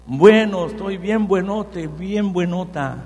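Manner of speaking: "Top, toda" called out loud; loud, slow demo answer for the congregation. Shown as a demonstration. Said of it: "Y usted le va a decir".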